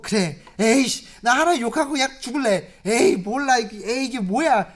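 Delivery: mock angry giving up. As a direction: spit it out like a sulking man. Acting Job giving in angrily.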